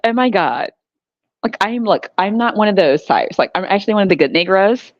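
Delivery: mock white-American accent; code-switched white talk. Playing the code-switcher among white neighbors, mock white accent. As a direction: put on prissy white-people speech. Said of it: "what code switching mean".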